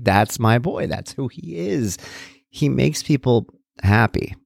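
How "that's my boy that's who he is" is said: proud and fond. Retold or imitated. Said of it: "And I was like".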